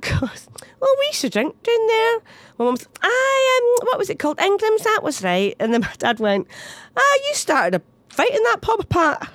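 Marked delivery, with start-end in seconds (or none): 0.8-2.2 high mock dad voice; imitating dad. Son mimicking dad over the Glasgow news, high and jokey. 3.0-5.6 laughing through mum's words. Retold or imitated. Mum quoted, crying heard. 7.0-9.3 high, slow mock dad; imitating dad. Son doing dad teasing mum, high and slow.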